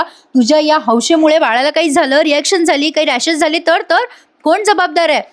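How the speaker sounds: a mild hammed-up yell; retold yelling. Husband yelling at Arya over the tattoo, a mild mock yell. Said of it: "जीवा पण ओरडतो".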